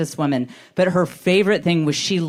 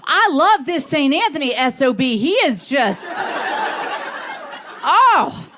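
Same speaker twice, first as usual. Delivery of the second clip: higher, gushing mock mother-in-law; 9 semitones higher than usual. Mother-in-law bragging to her Baptist friends, high and gushing. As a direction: rave about the saint like a thrilled old lady. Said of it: "She'd say".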